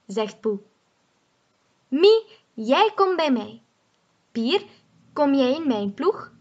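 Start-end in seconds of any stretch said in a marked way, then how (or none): 1.9-6.3 calling out. Acted. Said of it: "roept Wolf".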